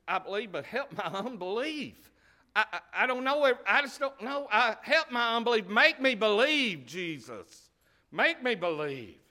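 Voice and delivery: high, loud desperate plea; crying father. Retold or imitated. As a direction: cry out to Jesus like the desperate father. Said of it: "I can almost hear the cry of the father".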